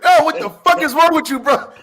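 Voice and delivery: high, loud mock yell; hammed-up shocked shout; retold yell. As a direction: yell it at a coworker in disbelief. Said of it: "It's like".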